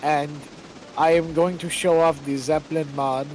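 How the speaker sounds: flat droning YouTuber voice; monotone voice. Retold or imitated. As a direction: read it in one dead level tone. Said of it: "he would have this monotone voice".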